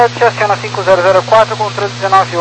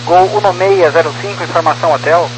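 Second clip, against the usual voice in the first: tinny radio transmission; crackly military radio; 6 semitones lower than usual. Real, not acted. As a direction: voice through a cockpit radio. Pilot over ATC radio.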